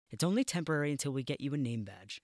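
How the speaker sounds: rattling off the admin; brisk matron. Acted. Matron briefing new porter.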